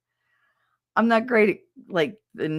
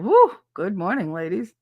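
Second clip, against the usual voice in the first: whoop, then settle into a cheery hello; deep-breath greeting; 2 semitones higher, 4 dB louder than usual. Acted. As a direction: blind man's joke punchline greeting. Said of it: "took a deep breath and said".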